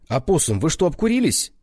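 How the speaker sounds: surprised. A narrator's reading. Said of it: "удивлённо спросил Вано".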